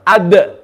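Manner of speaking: Ad with a released, echoing d; qalqala on dal. Shown as a demonstration. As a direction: bounce the d at the end of Ad. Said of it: "not doing qalqala".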